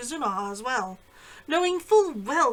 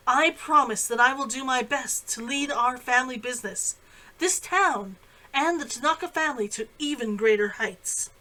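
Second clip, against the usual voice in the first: clear voice ringing out. Acted. New heiress thanks the whole room, ringing clear. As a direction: speak up to fill the room, clear and assured. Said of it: "Her sister's clear voice rang over the room".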